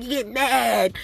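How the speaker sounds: a lightly voiced grumpy billy goat. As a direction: mimic the Sesame Street goat, lightly. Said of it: "the billy goat talking about".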